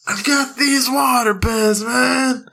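high, slow laughing huckster; sleazy salesman voice. Retold or imitated. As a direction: hawk it from the truck bed. Repeating salesman impression.

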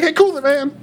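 high, hammed-up crowd call; mock yell. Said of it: "yelled when I played Simon".

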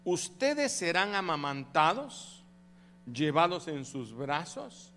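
slow scripture reading. Shown as a demonstration. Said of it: "oiga, estoy leyendo la Biblia".

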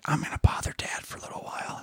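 unvoiced whisper, imitating the kid. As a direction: whisper the kid's sneaky thought. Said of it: "being like".

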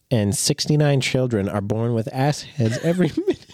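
fighting back laughter; breaking into laughs mid-sentence; laughing while talking. Real, not acted. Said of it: "I'm so sorry".

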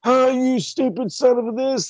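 high mock-scolding teacher; mock angry teacher. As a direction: yell at the kids like a cranky professor. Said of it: "tearing their asses apart".

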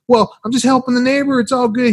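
high, breezy innocent voice; mock girlfriend. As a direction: lightly shrug it off. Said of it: "she's like".

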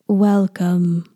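slow, put-on announcer voice; lightly hammed-up presenter delivery; mock posh host voice. Podcaster mocking her own intro in a put-on voice. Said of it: "I talk like this".

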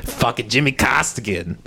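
a hint of mock Boston tough guy; put-on Boston accent. Shown as a demonstration. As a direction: play a Boston local lightly. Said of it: "how do you do a Boston accent".

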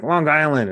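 Long Island with a hard g, mimicking locals; New York Long Island; imitating a hard Long Island. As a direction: echo the hard Long-Gisland they heard. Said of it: "they'd be like".

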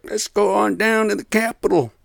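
high, loud mock rallying cry; loud, caricatured rabble-rouser; Trump impression. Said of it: "try to do his voice".

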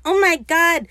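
loud, high gushing awe; over-the-top fawning. Retold or imitated. Pete adores Blackbeard's plan, gushing loudly in mock awe. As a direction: gush like a besotted fan, hammed up. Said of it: "doing the utmost dick riding".

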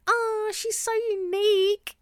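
high, slow, swooning mock gush; gushing fan voice. Mocking fans gushing over an influencer, high and slow. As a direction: coo it like a starstruck follower.

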